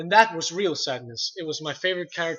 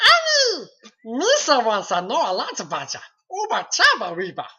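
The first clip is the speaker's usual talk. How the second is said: high, loud goofy Gungan voice; Jar Jar Binks; 6 semitones higher, 6 dB louder than usual. Shown as a demonstration. Performing Jar Jar Binks on request for the livestream host. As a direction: do Jar Jar, squeaky and bouncy. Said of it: "I do Jar Jar Binks".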